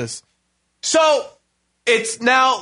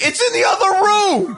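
laughing answer; 12 semitones higher than usual. Retold or imitated. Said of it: "I'm like".

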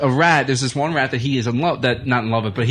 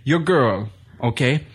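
thick, hammed-up Sheik accent, commanding; Iron Sheik impression; slower than usual. Sheik answering Marty in his room, mock Sheik accent. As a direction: order him in a badly faked Sheik accent. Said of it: "I have a terrible Sheik impersonation".

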